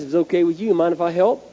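lightly imitated Southern patrolman; southern accent. Patrolman offering the driver help, light Southern accent. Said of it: "in his southern accent".

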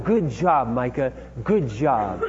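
slow, laughing encouragement; encouraging praise. Retold or imitated. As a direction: cheer the little boy on gently. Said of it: "It was always like".

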